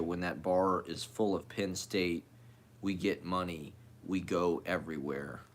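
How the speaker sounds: steady recital of listed phrases; poetry reading. Acted. Poet finishing a cut-off piece for listeners, steady reading. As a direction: read it out evenly, phrase after phrase. Reads end of his piece.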